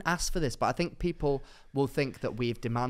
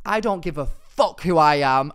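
louder, slower retort; retold angry retort; 7 dB louder, slower than usual. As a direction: snap it back, fed up and tired. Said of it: "And I went".

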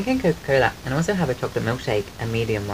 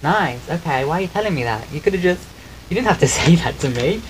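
mock indignant; 4 semitones higher than usual. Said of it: "I was like".

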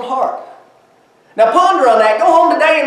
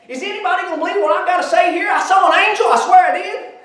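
Mary's nervous rehearsal; 3 semitones higher than usual. Acted. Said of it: "Her little heart's racing".

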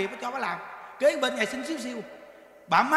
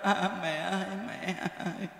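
imitated wailing; 4 semitones lower, 8 dB quieter than usual. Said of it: "Con nói vậy nè".

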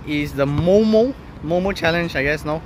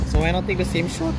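voice cracking; 3 semitones higher, faster than usual. Real, not acted. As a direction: voice breaks mid-line. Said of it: "Oh, my voice broke".

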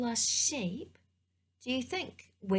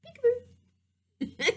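high, slow puppet voice; sing-out peekaboo in a high character voice; Eloise the elephant; 10 semitones higher, slower than usual. Pretend. Elephant puppet surprising the storyteller, high slow voice. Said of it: "You are Eloise the elephant".

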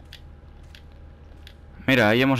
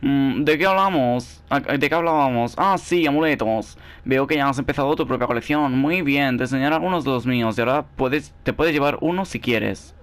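lightly voiced cheerful shopkeeper, a bit higher; sweet, fussy merchant lady, lightly done; charm seller voice; 4 semitones higher than usual. Reads the charm seller's lines. (voz de vendedora simpática)

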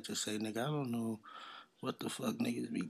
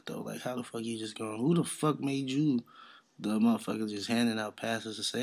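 ordinary talk, nothing marked

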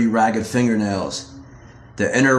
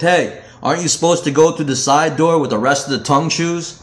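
sneering taunt; 5 semitones higher than usual. Acted. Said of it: "they joked".

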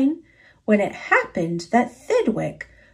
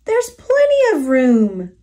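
laughing bug; 2 semitones higher than usual. Acted. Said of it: "laughed the bug".

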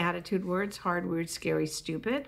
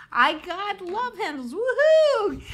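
higher, rising into a loud laughing whoop; laughing woohoo; 10 semitones higher, 5 dB louder than usual. Shown as a demonstration. Comic demoing how to cheer love handles, laughing whoop. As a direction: brag about the flaw and cheer it. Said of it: "you find some justification".

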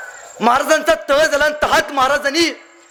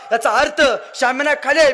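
usual speaking voice

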